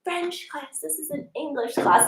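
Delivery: a hint of playful sternness; firm teacher. Teacher answering students in mock-stern tone. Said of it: "I'll be like".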